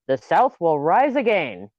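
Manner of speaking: weak attempt at a Southern accent; slow, half-hearted Southern accent, missing the mark. Shown as a demonstration. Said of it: "in your Southern accent".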